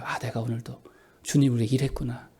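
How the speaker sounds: low, soft inner voice; quiet musing. Acted. Believer reflecting at night on serving, quiet musing. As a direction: think it to yourself, very softly. Acts a believer's contented bedtime thought.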